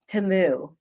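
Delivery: "Temu" as Tuh-moo; actual pronunciation. Shown as a demonstration. Host repeating the correction, "Temu" pronounced Tuh-moo. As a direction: say "Temu" with a short unstressed first vowel. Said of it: "but it's actually Temu".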